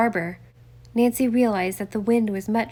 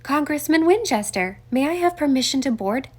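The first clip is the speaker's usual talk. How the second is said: raised voice calling down to the yacht; 5 semitones higher, 4 dB louder than usual. Acted. Detective calling down from the dock to the congressman, raised. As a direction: call down to someone below deck. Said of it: "called down".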